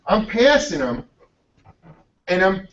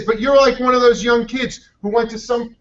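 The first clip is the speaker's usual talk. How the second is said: amused teasing; 6 semitones higher than usual. Retold or imitated. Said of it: "He says".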